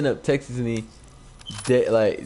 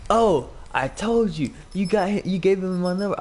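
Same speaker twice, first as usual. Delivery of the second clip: high mocking imitation of a girl; muffled girl's voice; 8 semitones higher than usual. Girl blaming him over the phone number, muffled mocking imitation. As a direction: mimic her in a high, muffled voice. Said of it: "she talked like this".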